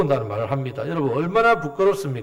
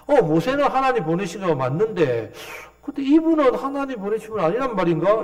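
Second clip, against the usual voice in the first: feigned bewilderment, lightly needling; mocking puzzlement; 4 semitones higher than usual. Healed blind man puzzling at the leaders, mock bewilderment. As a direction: wonder aloud to show them up. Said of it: "계속 조롱하는 소리".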